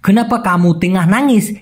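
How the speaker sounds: very slow, each Malay word spaced out; slow clear Malay. Shown as a demonstration. Teacher to Bengali learners, very slow careful Malay. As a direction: spell the phrase out by ear for learners. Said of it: "তেঙা অথবা সেডাং".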